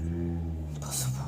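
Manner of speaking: very low, hushed, drawn out; stunned disbelief. Acted. Acting Naruto's stunned reaction.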